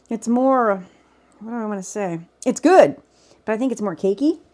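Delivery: talking while chewing; words round a bite of cornbread; mouth full. Real, not acted. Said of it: "I'm just talking with my mouth full".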